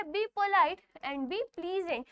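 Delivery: reads the rule slowly, word by word; slow reading aloud; slow textbook reading. Shown as a demonstration. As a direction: dictate it slowly for students. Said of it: "next बोला गया है".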